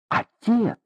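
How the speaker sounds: high frightened cry of "Отец!"; alarmed cry. Acted. Mother cries out to her husband in alarm. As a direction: gasp the word out in alarm.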